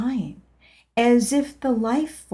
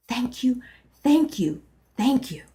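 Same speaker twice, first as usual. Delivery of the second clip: happily proclaimed; 4 semitones higher than usual. Acted. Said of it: "I happily proclaimed".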